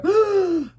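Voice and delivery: sharp high gasp of shock; startled gasp. Retold or imitated. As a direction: gasp like something hit the car. Owl hits windshield.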